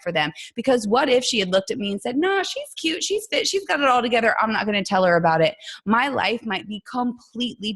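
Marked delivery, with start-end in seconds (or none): 2.2-5.6 dismissive imagined coach. Acted. Imagined dismissive coach talking herself out.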